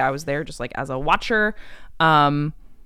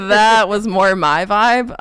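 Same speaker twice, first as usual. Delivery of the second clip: laughing through the words; 4 semitones higher, 6 dB louder, slower than usual. Real, not acted. Laughing while telling the host about her folk group. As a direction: giggle it out, amused.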